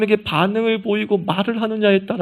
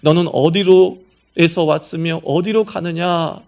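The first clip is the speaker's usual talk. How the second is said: louder, slow, weighty declamation; grand solemn question; 5 dB louder than usual. Acted. Preacher quoting God's question to Hagar as solemn philosophy, grandly. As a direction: intone it like a lofty philosophical riddle.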